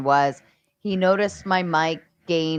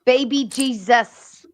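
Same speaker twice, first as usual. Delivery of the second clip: slow high exclamation; 8 semitones higher, 4 dB louder, slower than usual. Real, not acted. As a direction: stretch it out, high and loud. Exclaiming catchphrase.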